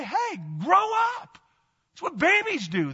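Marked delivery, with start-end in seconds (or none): 0.0-1.4 scolding rebuke. Retold or imitated. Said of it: "we need to say".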